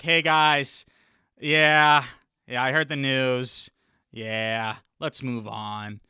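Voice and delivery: drawn-out, resigned yeahs, losing steam; mock defeated. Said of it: "like, a defeated voice".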